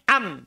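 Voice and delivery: "Am" with a throaty ain at the start; Arabic ain sound. Shown as a demonstration. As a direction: press "Am" from deep in the throat. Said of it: "Kalau ini pakai ain". ("Am" dengan huruf ain dari tenggorokan)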